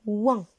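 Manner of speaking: teacher models ouin; sound demo. Shown as a demonstration. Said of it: "qui contient le son".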